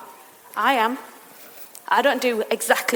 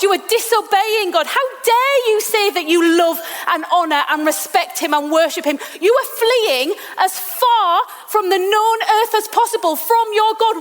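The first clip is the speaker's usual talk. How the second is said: preacher's outraged rant, climbing high; indignant rebuke; 6 semitones higher than usual. Acted. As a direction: tear into Jonah's hypocrisy, voice climbing higher. Preacher scolding Jonah, rising.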